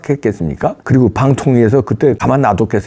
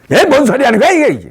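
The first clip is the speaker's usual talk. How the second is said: shocked outburst; 13 semitones higher than usual. Acted. Shocked man rejecting agent's claim.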